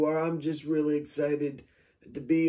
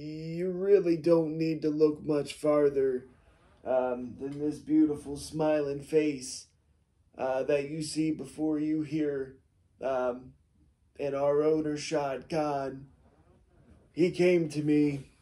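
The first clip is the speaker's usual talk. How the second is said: plain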